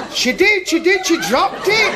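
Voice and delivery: high, loud comic insistence; excited exclamation. Retold or imitated. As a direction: blurt it out, pitched right up. Excited retelling of the risqué climax.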